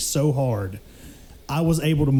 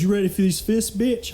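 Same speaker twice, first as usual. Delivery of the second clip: taunting bully; 5 semitones higher than usual. Retold or imitated.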